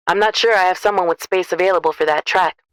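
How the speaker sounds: smooth trucker asking a caller a question. A narrator's reading. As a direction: ask it like a friendly working man. Trucker on phone.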